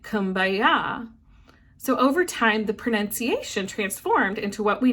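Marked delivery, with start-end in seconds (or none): 0.0-1.1 "Kumbaya" run together in a Gullah accent; Gullah Creole accent. Shown as a demonstration. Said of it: "in the Gullah's Creole accent sounds like".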